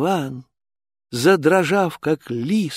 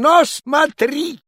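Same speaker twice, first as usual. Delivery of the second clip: higher, slow threatening tone; menacing tsar; 10 semitones higher, 3 dB louder than usual. Acted. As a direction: threaten the servant. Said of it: "закричал он".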